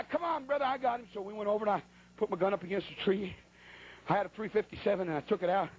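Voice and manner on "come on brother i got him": raised-pitch holler; calling out. Retold or imitated. Hunter to fled guide, calling him over. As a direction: beckon him back with a high call.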